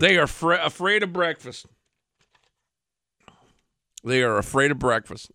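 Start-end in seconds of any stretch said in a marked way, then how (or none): 0.0-1.6 incredulous. Real, not acted. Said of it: "Hold up, hold up".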